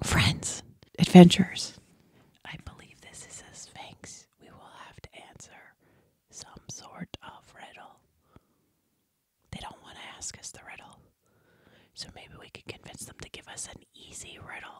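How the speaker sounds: gentle, very soft, hushed whisper. Player's character addressing fellow adventurers so others can't hear, in a gentle whisper. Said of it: "just whisper very gently so they can't hear me".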